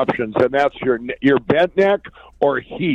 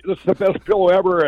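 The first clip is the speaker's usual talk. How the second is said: higher, gushing with pride in the product; passionate pitch; 5 semitones higher than usual. Retold or imitated. Broke inventor pleading with store buyer, passionate. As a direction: pour your heart into the sales line. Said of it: "all this passion I'm pouring out".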